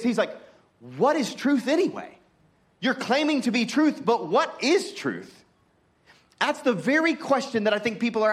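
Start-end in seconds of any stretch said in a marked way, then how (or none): 1.0-5.4 higher-pitched, casual challenge in Pilate's role; raised pitch, drawing out the final challenge; challenging Pilate paraphrase. Retold or imitated. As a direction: throw the question back, pitched up. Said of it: "So Pilate is saying this".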